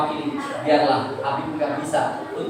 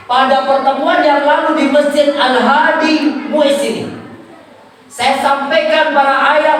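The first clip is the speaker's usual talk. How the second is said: higher, projected sermon delivery; emphatic public exhortation; raised preaching; 7 semitones higher, 5 dB louder than usual. Real, not acted. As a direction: address the parents like a preacher in full flow.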